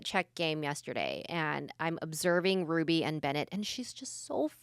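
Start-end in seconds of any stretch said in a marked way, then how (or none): 3.5-4.5 drawn-out, exasperated complaint. Real, not acted. Mom venting about her daughter, slow and fed up. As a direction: stretch it out, fed up.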